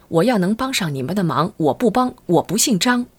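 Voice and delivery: high-pitched, emphatic pledge; emphatic vow. A narrator's reading. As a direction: swear it with rising fervour. Quoted officer's emphatic vow.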